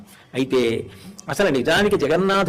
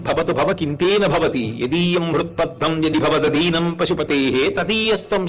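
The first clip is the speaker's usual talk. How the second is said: measured chanting of a Sanskrit verse; recited sloka. Acted. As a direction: intone the verse with devotion.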